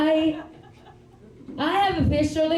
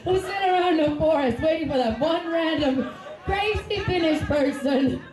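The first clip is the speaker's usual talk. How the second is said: incredulous laughing; 5 semitones higher than usual. Retold or imitated. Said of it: "And I was like".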